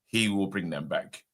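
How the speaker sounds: imitating a panicking Geordie accent; lightly voiced Geordie accent, urgent. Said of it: "in his Geordie accent".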